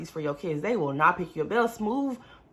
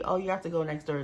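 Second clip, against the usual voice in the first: mock casual nurse; 3 dB quieter, faster than usual. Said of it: "Just all casual".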